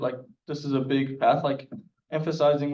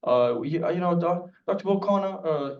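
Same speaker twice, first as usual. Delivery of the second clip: imitating a British caller, pitch rising; a light mock British accent; a lightly done British accent impression; 3 semitones higher than usual. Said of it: "He's just British accent".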